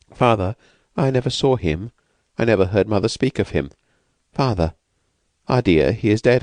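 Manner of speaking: lightly voiced timid woman, anxious; frightened young woman. Escaped woman asks the narrator, lightly voiced and anxious.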